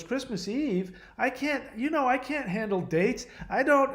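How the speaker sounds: high, agitated retelling of a distressed ex; mock distress. Ex recoiling at the mention of Christmas Eve, mock distressed. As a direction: act out her rising upset in a high pitch. Acted upset ex at Christmas date.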